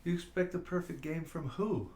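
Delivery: puzzled challenge, rising then falling on who; incredulous question. Real, not acted. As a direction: throw the comment back as a question. Questions a comment just read aloud.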